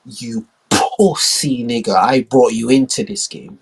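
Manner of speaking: very slow, heavy repeat; lightly voiced slow menace; menacing China. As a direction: hammer it home slowly. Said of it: "China, like".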